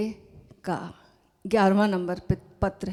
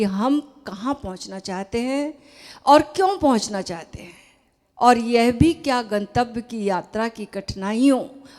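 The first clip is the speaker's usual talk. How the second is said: measured, emphatic reading aloud; formal letter reading; 4 dB louder than usual. Acted. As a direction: read it out deliberately, pausing between phrases. (पत्र का ज़ोरदार, सधा हुआ पाठ)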